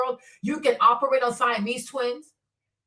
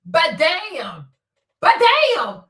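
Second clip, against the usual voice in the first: building amazement; much slower than usual. Retold or imitated. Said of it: "I said".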